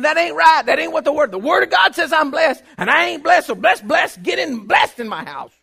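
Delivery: high, loud, shouted declaration; shouting. Retold or imitated. Preacher reenacting shouting prayers behind his house, loud. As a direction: shout it at the whole world. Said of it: "shouting in the back of the house".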